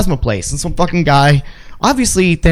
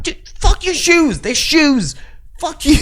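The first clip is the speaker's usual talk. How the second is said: mock exasperated retort; 10 semitones higher, slower than usual. Mock retort about shoes.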